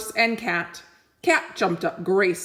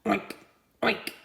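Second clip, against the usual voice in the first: pig oink; 2 semitones higher, 4 dB quieter than usual. Acted. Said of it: "said Pig and Pig".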